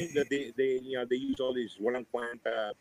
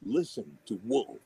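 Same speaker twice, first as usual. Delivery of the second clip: radio plug; slower than usual. Shown as a demonstration. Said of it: "ask a favor from each of you".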